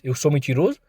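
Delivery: taunting while slapping, building to fury; mounting anger. Acted. Voltou a bater de leve na cara.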